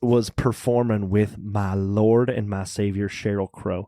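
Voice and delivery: hammed-up church lady worshipping her idol. Church lady lamenting a missed concert by a singer, low mock piety. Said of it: "also the church lady voice".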